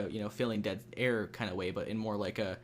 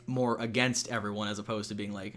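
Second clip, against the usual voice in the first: usual speaking voice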